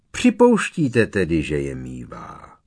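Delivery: blurting out. A narrator's reading. Minister jumping on Dumbledore's admission, blurting out. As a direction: blurt the question, then drop low. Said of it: "vyhrkl Popletal".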